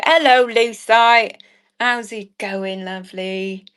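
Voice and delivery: lightly put-on Cockney greeting, drawn out; Cockney accent. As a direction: greet them with a touch of slow Cockney. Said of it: "to be a Cockney round you".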